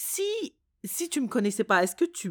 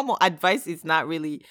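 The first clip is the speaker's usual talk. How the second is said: ordinary talk, nothing marked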